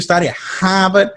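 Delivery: a Boston "Harvard", dropping the r as "Hahvad"; Boston accent. Pretend. Podcaster jokingly drops the r in Boston style. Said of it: "that's your Boston accent?".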